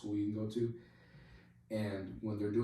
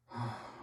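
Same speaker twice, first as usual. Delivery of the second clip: acted weary exhale; resigned sigh; 2 semitones higher, 4 dB quieter than usual. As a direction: sigh before giving in. Sergeant's sigh before agreeing to help.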